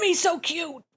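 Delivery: ordinary delivery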